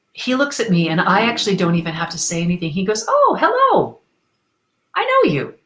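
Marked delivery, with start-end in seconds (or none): 3.1-5.5 a light high-pitched take on Deepak's friendly hello; Deepak greeting. Retold or imitated. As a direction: lift the voice high and pleasant. Deepak Chopra voiced greeting her.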